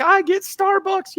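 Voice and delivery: fired-up guest gloating about his coffee; giddy. Retold or imitated. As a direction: savour it like a kid on a holiday morning. Waking up fired up.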